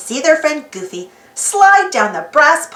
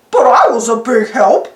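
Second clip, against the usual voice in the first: insisting; 5 dB louder than usual. Acted. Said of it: "Goofy insisted".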